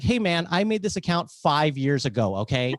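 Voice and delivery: mildly indignant retort; giving attitude. Retold or imitated. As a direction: push back with a touch of attitude. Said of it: "then I gave him attitude".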